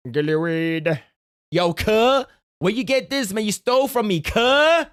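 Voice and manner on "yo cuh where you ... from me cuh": higher, pushy street-tough voice; mock thug accusation. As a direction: call him out like a thug. Playing a bully accusing theft.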